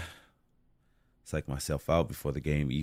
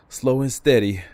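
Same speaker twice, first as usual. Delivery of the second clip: louder, pushed out through effort; straining; 6 semitones higher, 9 dB louder than usual. Real, not acted. Climber coaches himself while bracing between walls, straining. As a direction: force the words out mid-climb.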